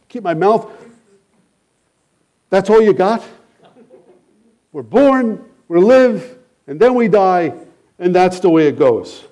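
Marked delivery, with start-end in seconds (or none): 2.5-9.2 higher, mocking repeat of a hollow line; scoffing retort to the old man's words; incredulous echo. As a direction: echo it back in disbelief.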